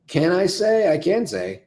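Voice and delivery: usual speaking voice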